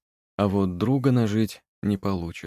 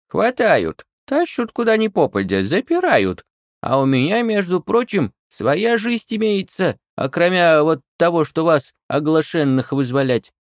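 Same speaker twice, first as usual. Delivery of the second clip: put-on high, loud complaining old witch; indignant witch listing her grievances; grumbling crone rant; 9 semitones higher, 7 dB louder than usual. A narrator's reading. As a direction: rant like an offended old hag. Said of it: "Яга не унималась".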